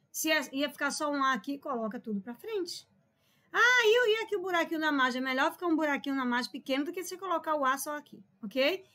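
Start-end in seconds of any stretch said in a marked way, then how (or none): 3.5-5.2 high, loud "ah" into a quick question; lightly voiced student protest, rushed after the opening; student's objection. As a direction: pipe up like a pupil objecting.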